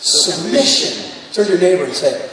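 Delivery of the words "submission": slow say-along. Shown as a demonstration. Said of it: "Everybody say it with me".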